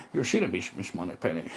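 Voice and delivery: low, quiet spy impression; a hint of a smooth secret agent; Bond parody voice.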